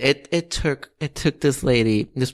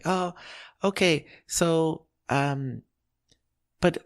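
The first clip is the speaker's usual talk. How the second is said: high, hesitant imitation of an old customer; dithering old lady; 6 semitones higher than usual. Old lady puzzling over prices at the counter, high dithering voice. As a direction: stumble through it as a sweet old lady. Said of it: "a gazillion questions".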